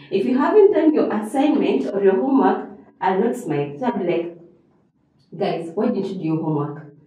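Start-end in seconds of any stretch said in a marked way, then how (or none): 5.4-6.9 quick, lower, mildly displeased question; a touch of stern disappointment; not happy. Shown as a demonstration. Teacher asking the class about undone homework, not happy. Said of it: "I am not happy".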